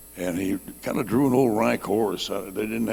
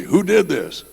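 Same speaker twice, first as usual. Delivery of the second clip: high, loud commanding question; demanding officer; 10 semitones higher, 7 dB louder, slower than usual. Retold or imitated. Lieutenant demands an answer from the rider, high loud shout. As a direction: bark it like a cavalry lieutenant.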